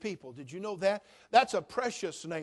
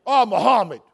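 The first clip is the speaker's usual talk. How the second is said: mock exclamation; 11 dB louder than usual. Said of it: "They don't say".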